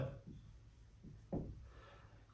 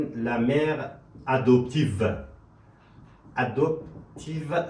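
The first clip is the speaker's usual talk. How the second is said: slow demo; much slower than usual. Shown as a demonstration. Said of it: "سعی کنین".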